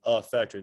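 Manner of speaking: "affector" with a clear flat a, as in "cat"; odd pronunciation. Shown as a demonstration. Teacher repeating "affector" her own way for students. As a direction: spell out "affector" with a strong a sound. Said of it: "nobody pronounces it like I just did".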